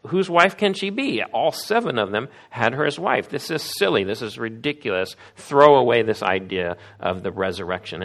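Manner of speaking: hammed-up derisive challenge; mocking sneer. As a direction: ridicule the idea like a smug skeptic. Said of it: "you can almost hear the tone of voice".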